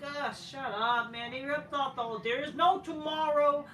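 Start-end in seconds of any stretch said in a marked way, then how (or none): 0.0-1.3 annoyed brush-off. Retold or imitated. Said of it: "it's like".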